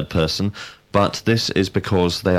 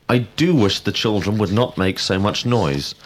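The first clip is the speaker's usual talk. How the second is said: "do" stressed for emphasis. Shown as a demonstration. Teacher giving an example of emphatic verbs, stress on "do". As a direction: put the emphasis on "do". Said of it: "used when we wish to be emphatic".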